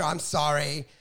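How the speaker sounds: low, subdued mock contrition; mock apology. Imitating a comic apologizing after a bad act, mock sheepish. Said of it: "they had to apologize after".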